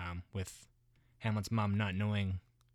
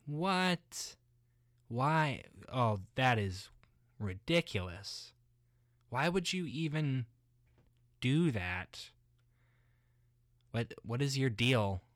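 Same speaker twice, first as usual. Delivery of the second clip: shocked outrage; 4 semitones higher, slower than usual. Retold or imitated. Hamlet reacts to father's murder.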